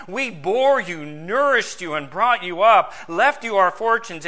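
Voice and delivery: lightly acted parental reproach; pleading parent. Dead parents appealing to their children, mildly reproachful pleading. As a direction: plead emphatically, as a preacher voicing dead parents. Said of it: "Hear the father saying to his son".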